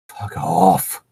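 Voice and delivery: high, crying-out fuck off; hammed-up cry at Dumbledore's memory; mock fuck off. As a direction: hurl it with a mock wail. Reading an insult line.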